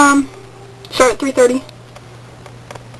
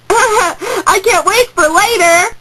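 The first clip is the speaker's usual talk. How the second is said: laughing; 5 semitones higher, much slower than usual. Real, not acted. Laughing about the drama.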